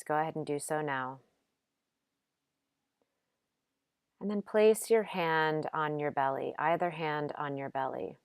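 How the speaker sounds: gentle, unhurried meditation guidance with long pauses; calm yoga nidra instruction, lightly softened; guided meditation. Acted. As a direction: guide them softly into rest, leaving space between phrases.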